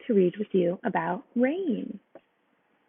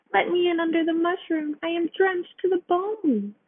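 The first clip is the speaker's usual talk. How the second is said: high, pleading mouse voice; begging mouse; 9 semitones higher than usual. A narrator's reading. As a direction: plead to get out of the rain. Mouse begs.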